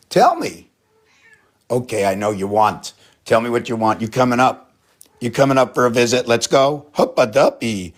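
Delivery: high, loud cooing sing-song; pet talk to cat. Real, not acted. Owner greeting her cat, high playful pet voice.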